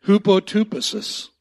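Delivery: "Hupotupesis" called out loudly for the room to echo; leading a repeat. Shown as a demonstration. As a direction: lead the crowd in saying "Hupotupesis". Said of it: "wanna say that with me".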